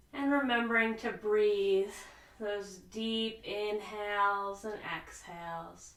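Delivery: calm, unhurried yoga teacher with long pauses; soothing relaxation-class voice, lingering on the breathing cues; guided sleep yoga. Real, not acted. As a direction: ease them gently toward sleep, phrase by phrase. Leads restful yoga breathing.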